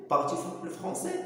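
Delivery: slow, careful "Parles-tu le français؟" with a rise on français; slow demo. Shown as a demonstration. Teacher slowing down so students catch the question. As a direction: spell it out slowly for learners. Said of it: "تتكلم الفرنسية؟".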